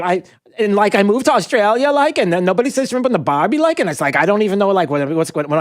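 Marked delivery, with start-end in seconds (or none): 0.0-3.8 mock whiny teen. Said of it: "some eighteen-year-old going".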